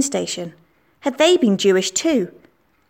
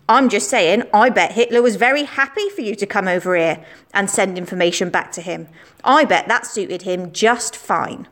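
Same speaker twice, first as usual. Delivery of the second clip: lightly voiced boastful schoolboy. Schoolboy Billy accusing Anna in the playground, cocky. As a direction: play the know-it-all lad spreading rumours.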